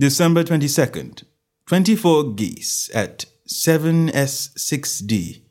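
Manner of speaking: slowing, deliberate ledger reading; reading aloud. Acted. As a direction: read out date, count and price. Holmes reads the last entry.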